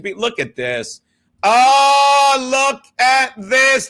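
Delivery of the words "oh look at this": slow, drawn-out mock amazement; hammed-up slow wonder; Baboom impression. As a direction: stretch "look at this" out like an announcer. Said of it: "to quote Baboom".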